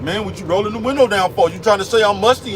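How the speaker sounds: a light mock of someone taking offense; going ballistic. Musty guy mock-snaps at the man rolling the window down. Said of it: "you go ballistic".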